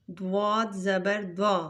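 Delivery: دوا said thick and full; heavy letter. Shown as a demonstration. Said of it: "اس کو بھی ہم موٹا پڑھیں گے".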